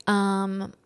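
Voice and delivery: lightly mimicked entitled customer, drawn-out words; complaining customer. Woman asking surf guide for another board, mildly entitled. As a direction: stretch the words in a mild mock complaint.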